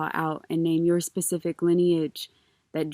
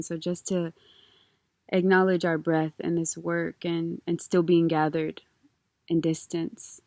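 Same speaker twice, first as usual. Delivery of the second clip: calm grounding exercise. Acted. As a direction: ease them gently into breath. Leads a grounding breath practice.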